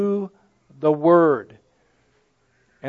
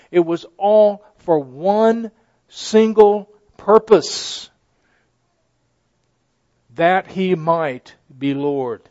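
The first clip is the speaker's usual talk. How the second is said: slow, deliberate build to Lord; weighty sermon climax; slow climactic emphasis; slower than usual. Real, not acted. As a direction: let the point land heavily. Climax of preaching point.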